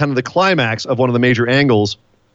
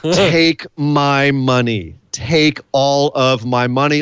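slow hyped drawl; much slower than usual. Real, not acted. Hyped about a match.

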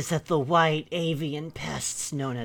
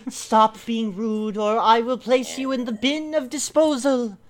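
haughty cat voice; 7 semitones higher, 5 dB louder than usual. Acted. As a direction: threaten it grandly. Cat character repeats threat.

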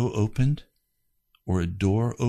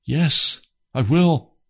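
raised, loud vow; emphatic promise; 6 semitones higher, 6 dB louder, much slower than usual. Retold or imitated. Man promising God to obey, emphatic. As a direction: commit to it forcefully, pitch up. Retold promise answering God's command.

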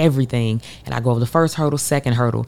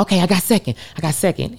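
excited; 5 semitones higher, faster than usual. Retold or imitated. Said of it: "and I'm like".

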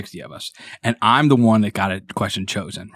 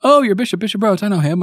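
lightly voiced cardinal, higher; 10 semitones higher, 3 dB louder, faster than usual. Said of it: "He goes".

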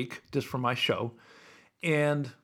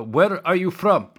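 higher, louder, slow put-on cabbie; taxi driver voice; 6 semitones higher, 8 dB louder than usual. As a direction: play the nosy cabbie asking slowly. Taxi driver asks passenger.

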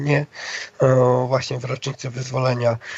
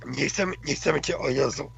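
cracking voice. Real, not acted. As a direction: voice breaking from a dry throat. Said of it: "jak mi się głos zepsuł". (łamiący się głos)

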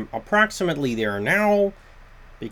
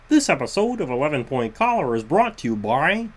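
Kermit the Frog voice; faster than usual. Shown as a demonstration. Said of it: "getting into my Kermit the Frog voice".

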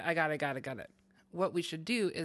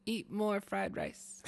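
slow proverb; 3 semitones higher, 3 dB quieter, much slower than usual. Acted. Reciting fortune cookie.

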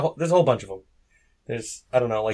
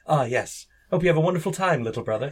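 lightly hammed-up fond well-wisher; mock storybook sibling; 3 semitones higher than usual. Mocking how fantasy siblings talk, lightly gushing. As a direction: play an overly gracious older sibling. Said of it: "walking around going like".

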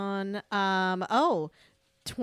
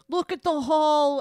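loud, slow, high Maine accent attempt; Maine lobsterman; 7 semitones higher, 7 dB louder, slower than usual. Guessing at a Mainer accent, hammed-up lobsterman. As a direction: holler it like a Maine lobster guy. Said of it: "like, the lobster guys going".

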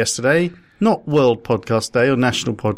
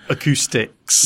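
drawn-out word; slower than usual. Pretend. Testing words for echoey places.

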